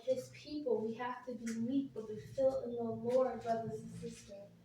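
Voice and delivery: fervent sermon shout; shouting preacher. Real, not acted. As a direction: cry the word out to the congregation. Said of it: "forgive me, Lord, for shouting".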